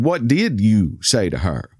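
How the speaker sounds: slow, measured demand. Retold or imitated. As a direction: voice a manager confronting a customer, mildly stern.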